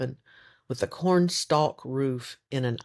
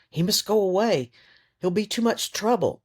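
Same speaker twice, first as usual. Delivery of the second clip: higher, louder, pushy and menacing; threatening; 8 semitones higher, 3 dB louder than usual. Acted. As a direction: argue him out of the house. Yonel arguing and threatening Maria.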